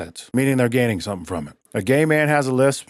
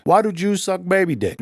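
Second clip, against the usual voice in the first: dumb voice; 8 semitones higher than usual. Pretend. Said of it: "if I tell you I'm retarded".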